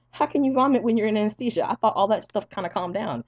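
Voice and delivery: high, loud mock protest; bewildered disbelief. Patient challenging staff about vomiting under anesthesia, bewildered. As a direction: question them in exaggerated bafflement.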